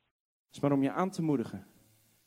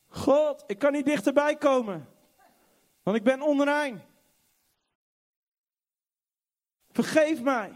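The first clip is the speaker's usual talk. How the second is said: anguished plea; 9 semitones higher, 4 dB louder than usual. Acted. Sinner cries out to God.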